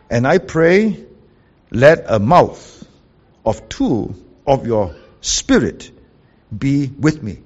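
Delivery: slowed right down, each phrase drawn out; slow reread. Shown as a demonstration. Preacher repeating the literal verse for the congregation, very slowly. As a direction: repeat it slowly so every word sinks in. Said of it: "So the literal is this".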